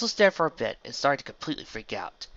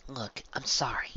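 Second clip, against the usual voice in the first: whispered, slow apology; hushed tender sorry; soft apology; 3 dB quieter than usual. A narrator's reading. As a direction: gently say sorry. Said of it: "she said softly".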